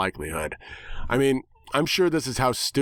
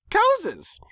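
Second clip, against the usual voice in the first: much higher cry of the word Cowses; gleeful pony shout. Acted. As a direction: squeal it like a delighted cartoon pony. Pinkie answers in kind.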